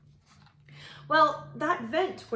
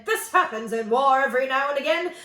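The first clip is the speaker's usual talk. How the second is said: louder pompous general voice; shouting general; 3 semitones higher, 5 dB louder than usual. Acted. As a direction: bluster an excuse to retreat. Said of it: "shouted out to his men".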